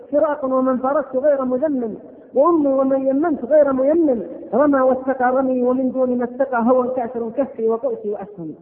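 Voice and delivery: measured, chanted reading of classical verse; poem recitation. Acted. Preacher reciting an old elegy to the congregation, measured and solemn. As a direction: recite the elegy with weight and rhythm.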